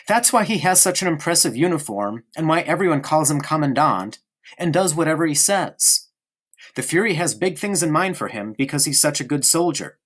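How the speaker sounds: put-on a small boy prattling on to his friend; young boy Bruno. Bruno voice again.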